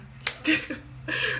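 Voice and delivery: breathy high giggle mid-boast; a quick delighted giggle; giggling while bragging. Real, not acted. Gleeful boast about beating.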